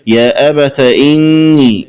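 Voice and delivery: أبت said "abata"; open ta. Shown as a demonstration. Teacher showing the linked reading, أبت with final a. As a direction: end أبت on short a before إني. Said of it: "بفتح التاء".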